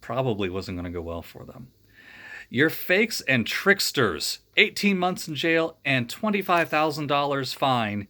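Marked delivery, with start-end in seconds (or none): 2.5-8.1 slow, loud sentencing; stern judge. Acted. Judge sentencing the Ghostbusters, stern and loud. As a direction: hand down the sentence slowly. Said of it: "said the judge".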